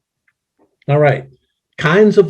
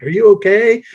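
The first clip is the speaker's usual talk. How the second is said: worried bystander; 7 semitones higher than usual. Retold or imitated. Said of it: "hitting you on the back and like".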